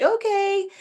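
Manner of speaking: high-pitched offhand okay; distracted okay, imitated. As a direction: imitate a reply tossed out in a high voice. Voicing reply to Lucy leaving.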